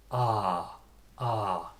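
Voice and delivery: long, falling "Ah"; drawn-out open "Ah" demo; open AH vowel. Shown as a demonstration. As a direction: say "Ah" with the mouth wide open. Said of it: "Just open your mouth wide".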